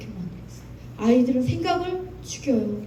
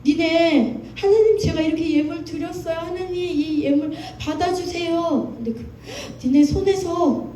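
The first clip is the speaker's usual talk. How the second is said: a hint of God rebuking his people, raised pitch; preacher voicing God's reproach, pitched up; God's rebuke; 4 semitones higher than usual. Preacher quoting God to the congregation, stern rebuke. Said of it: "이렇게 얘기하는 하나님".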